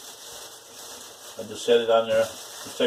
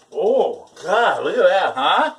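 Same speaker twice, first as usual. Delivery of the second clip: higher, louder delighted exclamation; excited; 6 semitones higher, 4 dB louder, slower than usual. Real, not acted. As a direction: gush over the sizzling food. Excited at snow and food.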